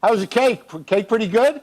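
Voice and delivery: high, casual fishing tone; mock casual fishing for praise.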